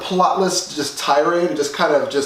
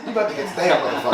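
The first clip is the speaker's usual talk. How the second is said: seething anger; faster than usual. Retold or imitated. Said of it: "let's all do our Ben Carson".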